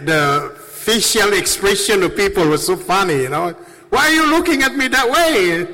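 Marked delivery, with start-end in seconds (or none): 3.9-5.7 puzzled, high and fast. Retold or imitated. Retelling his puzzled reply.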